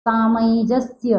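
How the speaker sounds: सामंजस्य slowly, with a palatal nasal before ज; slow teacher's model of सामंजस्य, nasal glide before ज; anusvara as nya. Shown as a demonstration. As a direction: draw out सामंजस्य as "saa-manyi-jasya". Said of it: "इय लगाएंगे".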